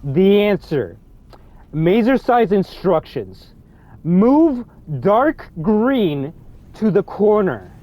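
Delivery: slow, separated words, each one stressed; slow, careful reading. Real, not acted. Reading the answer message word for word, slow and careful. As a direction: read word for word, slowly and deliberately. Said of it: "I'm gonna read this slow and carefully".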